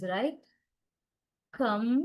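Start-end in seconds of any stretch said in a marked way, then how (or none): 1.5-1.9 "Computation" split into four separate syllables. Shown as a demonstration. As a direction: say "Computation" one syllable at a time, long pauses between. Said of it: "there are so many syllables".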